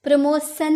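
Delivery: प्रमोशन mispronounced with "s" for "sh"; प्रमोशन ending in a hissed "sun", as the mistake; wrong S pronunciation. Shown as a demonstration. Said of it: "प्रमोशन नहीं".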